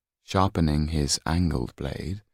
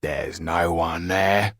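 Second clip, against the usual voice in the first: caretaker's voice; 4 dB louder than usual. A narrator's reading. Caretaker brushing off the boy's fear, lightly voiced and loud. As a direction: dismiss the boy's fears firmly.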